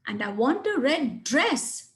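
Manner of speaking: "dress" stressed to mean nothing else. Shown as a demonstration. Teacher showing stress on "dress" to the class. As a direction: lean on "dress" as the one thing wanted. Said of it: "I really want a dress and nothing else".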